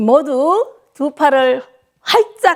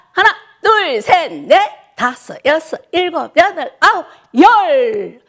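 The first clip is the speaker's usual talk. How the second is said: high, louder count with a shouted finish; calling the count; 4 semitones higher, 4 dB louder than usual. Real, not acted. 어르신들 박수에 맞춰 크게 외치는 구령. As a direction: drive the class through the claps. Instructor calls clap count.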